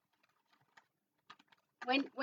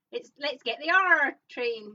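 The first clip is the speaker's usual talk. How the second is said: slow quote with "R" as a drawn-out pirate "arr"; running-gag pirate "arr" on "R"; 4 dB louder than usual. Retold or imitated. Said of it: "every single time I go".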